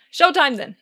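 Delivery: loud, bright cheer; rally everyone for the show. Acted. Charlie hyping Lester before hopping on stage, cheering. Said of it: "Charlie cheers".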